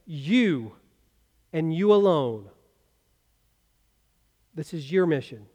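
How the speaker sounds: lightly voiced officer handing out the mission; commander. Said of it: "the commander would look at those young men and say".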